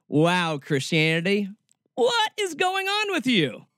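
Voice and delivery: high-pitched, baffled plea; exasperated, incredulous question; exasperated disbelief. Real, not acted. Exasperated appeal to Christianity.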